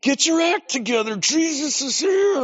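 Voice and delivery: high, loud, urgent call to the congregation; urgent pastor. Retold or imitated. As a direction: raise the alarm: Jesus is here, wake up. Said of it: "he's like".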